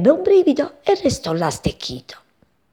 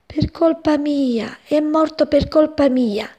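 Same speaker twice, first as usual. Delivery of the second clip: slow, higher, grieving; remorseful thought; 6 semitones higher than usual. A narrator's reading. (pensiero pieno di rimorso, lento)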